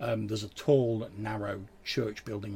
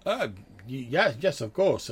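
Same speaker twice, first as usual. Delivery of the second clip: vicar agreeing; 3 semitones higher, 5 dB louder than usual. Acted.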